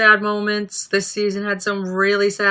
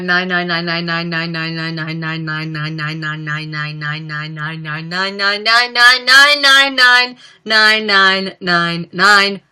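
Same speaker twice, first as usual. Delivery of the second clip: dragged out nines; 3 dB louder, much slower than usual. Acted. Drawn-out joke count of nines.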